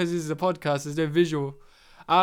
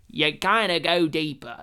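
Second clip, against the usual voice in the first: half-hearted deeper American accent; poor American accent; 3 semitones lower than usual. Shown as a demonstration. Showing an actor's baseline, roughly attempted American accent. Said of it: "I can't do an American accent very well".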